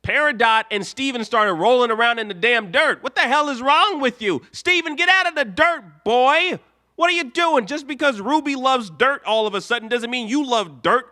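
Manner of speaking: an outraged fan scolding Steven; exasperated rant. Real, not acted.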